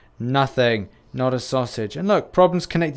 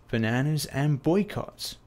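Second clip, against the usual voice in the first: character impression; 5 dB quieter, slower than usual. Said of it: "I want you to guess who this is".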